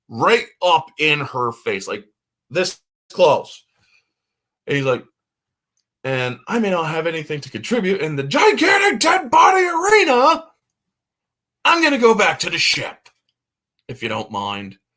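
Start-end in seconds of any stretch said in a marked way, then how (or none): 6.1-14.8 put-on yell, higher pitch. Retelling a movie scene where a geologist yells in her face: imitating a character yelling. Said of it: "he's yelling this right in her face".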